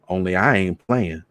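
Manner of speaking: plain reading voice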